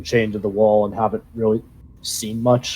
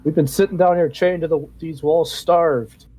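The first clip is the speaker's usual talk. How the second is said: higher, pleading goblin prisoner; 4 semitones higher than usual. Acted. GM voices starved goblin.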